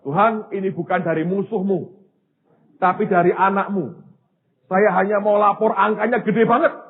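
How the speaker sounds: emphatic report to God; bold prayer. Retold or imitated. Preacher reporting a huge bill to God, bold prayer. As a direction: press the case boldly before God.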